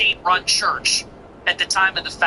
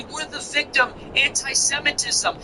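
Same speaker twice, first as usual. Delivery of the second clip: higher, softer mocking plea; mock victim whine; 5 semitones higher, 3 dB quieter than usual. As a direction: play the wounded party in parody. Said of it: "The Jews will say".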